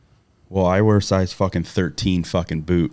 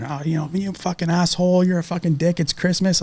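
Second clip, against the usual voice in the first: much higher mock voice of a scolding woman; mock scolding lady; 11 semitones higher than usual. Mocking the lady who scolded him at Christmas, high mock scold. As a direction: parody the outraged bystander.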